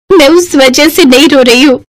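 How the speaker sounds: mildly tearful whine; sobbing bride. Acted. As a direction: protest through light mock sobs. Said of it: "सिसक सिसक कर रो रही है".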